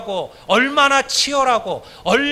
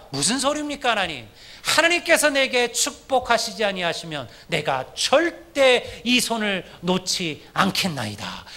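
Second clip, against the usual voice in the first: Jacob's firm plea; 3 dB quieter than usual. Retold or imitated. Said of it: "야곱이 뭐라고 얘기합니까".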